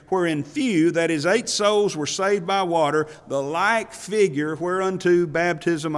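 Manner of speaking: emphatic, full-voiced Bible reading; scripture reading. Preacher reads the verse to his congregation, emphatic scripture reading. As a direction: read out the verse with preacherly weight.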